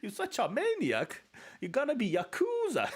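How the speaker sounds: high, loud put-on Asian-accented scolding; a badly done Asian accent, half laughing; mock Asian accent. Streamer doing a self-admitted bad Asian accent, scolding. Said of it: "I don't do Asian accent very well".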